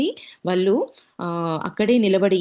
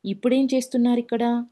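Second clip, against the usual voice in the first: startled surprise; 5 semitones higher than usual. Retold or imitated. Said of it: "అని నాతో మళ్ళీ".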